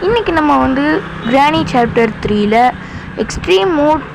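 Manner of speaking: lightly mimicked YouTuber greeting, lifted at the start; a hint of a vlogger's intro voice; Jenny Gaming intro imitation. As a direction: copy a gamer's channel intro. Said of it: "எப்படிப்பா, voice சூப்பரா இருந்துச்சா?".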